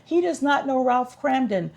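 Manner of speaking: high, loud, exasperated disbelief; playful outraged astonishment; incredulous appeal. Real, not acted. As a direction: plead with the viewers, voice climbing. Mock outrage at partner's ignorance.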